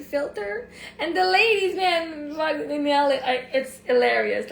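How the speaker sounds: cracking up, gasping it out; laughing. Real, not acted. Cracking up telling viewers how the ladies nail the filter.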